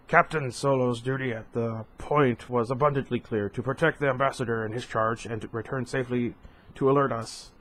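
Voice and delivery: a hint of Ackbar's measured council voice; Admiral Ackbar impression. Ackbar defending Solo to the council, lightly voiced admiral. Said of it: "a better, um, uh, Ackbar impression".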